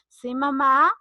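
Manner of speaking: polite, obedient reply to mother; respuesta correcta y obediente. Acted. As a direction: answer mom properly, without yelling. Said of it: "se responde". (respuesta educada y obediente)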